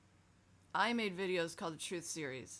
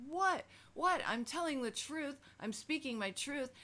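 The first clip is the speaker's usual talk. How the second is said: put-on confused child protesting; 8 semitones higher than usual. Child answering the yelling adult, high and bewildered. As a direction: squeak it out like a baffled little kid.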